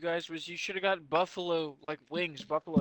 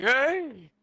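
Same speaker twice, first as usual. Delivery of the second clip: yelling; 8 semitones higher, 6 dB louder than usual. Retold or imitated. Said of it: "Donna's gonna come up there ... be like".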